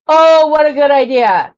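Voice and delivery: a sudden eureka, half shouted; excited. Real, not acted. Jewelry maker hit by a clever idea, excited shout.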